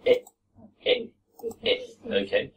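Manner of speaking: "it" said with no clear T at the end; swallowed T. Shown as a demonstration. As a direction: clip the T off "it". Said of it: "This isn't really a T".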